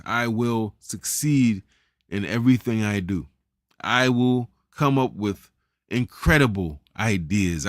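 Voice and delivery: slow, deliberate affirmations, each one meant; said with conviction. Shown as a demonstration. Coach models "I will" affirmations for listeners, slow and with conviction. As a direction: say it slowly, like you believe it. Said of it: "you say it like you mean it".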